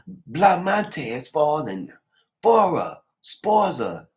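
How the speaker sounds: loud, high roll call of the dead; calling out the fallen. Retold or imitated. Recapper calling out each slain officer, loud and high. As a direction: shout each name like a herald. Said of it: "just saying their names".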